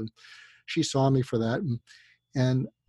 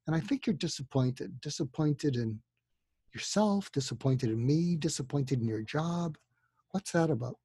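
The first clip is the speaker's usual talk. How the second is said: 1 soft; 7 dB quieter than usual. Shown as a demonstration. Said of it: "you can say".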